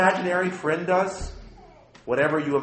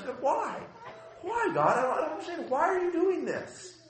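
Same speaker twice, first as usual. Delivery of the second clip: pleading with God; 11 semitones higher than usual. Retold or imitated. Pastor voicing his own questions.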